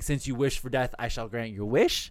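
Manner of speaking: villain announcing an execution; ominous voice. Retold or imitated. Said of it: "an ominous voice saying".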